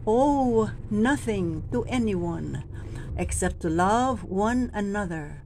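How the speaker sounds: very slow, long Owe; drawn-out owe. Shown as a demonstration. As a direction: stretch Owe nothing to anyone. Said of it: "Habaan din ng konti".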